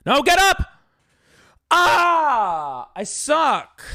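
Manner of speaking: high, loud frantic yell; high wailing cry of defeat; panicked yell. Real, not acted. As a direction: shout at the game in panic. Panicking over losing in game.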